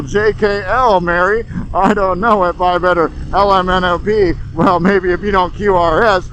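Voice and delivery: lightly voiced cult members trading acronyms; a hint of chirpy insider small talk; mock cult chatter. Mocking cult members chatting in acronyms, lightly voiced. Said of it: "speak in a coterie of abbreviations".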